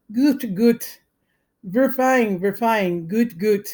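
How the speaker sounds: high, loud, manic crying out of the words; a boy acting crazed, wailing and cheery at once.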